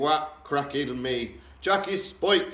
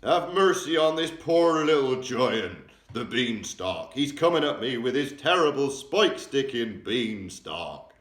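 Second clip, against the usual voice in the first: loud, slow, begging wail; the giant begging Jack to spare him; pleading giant scream; 5 semitones higher, 8 dB louder than usual. A narrator's reading. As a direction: plead for mercy with all his might. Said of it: "screamed the flesh lump eater".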